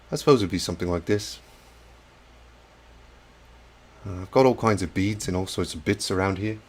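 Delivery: lightly attempted fellow YouTuber impression; a tentative, slightly put-on imitation of a hobby host; Bill. Streamer answering a viewer's request, tentatively imitating another YouTuber. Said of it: "I can't do a Bill impression".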